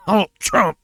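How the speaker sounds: high exasperated shout. Acted. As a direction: yell it out in exasperation. Shouting name again.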